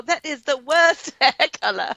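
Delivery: mock British judge, breaking into laughter; scornful judge's verdict through a laugh; Simon Cowell. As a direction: pass harsh judgment in put-on British. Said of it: "the Simon Cowell".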